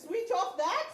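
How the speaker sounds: high, loud call waiting for the answer; rally the crowd, rising at the end; rousing call. Real, not acted. Speaker calls out to the audience, loud and rising. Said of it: "call and response".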